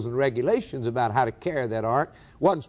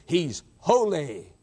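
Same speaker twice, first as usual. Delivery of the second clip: slow, drawn-out declaration; deliberate reverent weight; slow solemn; 3 semitones higher, slower than usual. Real, not acted. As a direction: stretch the words out.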